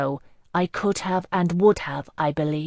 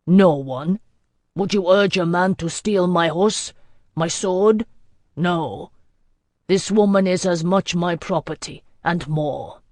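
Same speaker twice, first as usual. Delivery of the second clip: a lightly voiced stern lord, louder and commanding; cold warlord; 4 dB louder than usual. Warlord scolding the gathered villagers, lightly voiced stern command. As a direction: lay down the law to the villagers. Lord Selig addresses the Gombrivi.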